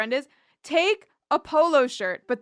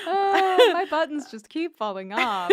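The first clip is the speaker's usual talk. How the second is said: laughing Angel impression; 5 semitones higher, 3 dB louder than usual.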